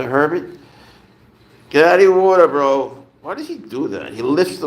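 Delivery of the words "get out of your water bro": raised voice, pitched up at a pet; real scolding call. Real, not acted. Owner catches pet in the water bowl, scolding call. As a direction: scold the animal from across the room.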